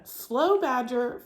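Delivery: slow, drawn out slow badger. Shown as a demonstration. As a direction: stretch it out slowly. Words read to match meaning.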